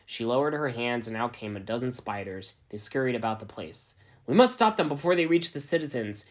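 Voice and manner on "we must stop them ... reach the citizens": high, loud, pressing call; rally them fast against danger; urgent. Acted. Aragorn rallying the group against spiders, high urgent call. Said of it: "Aragorn said urgently".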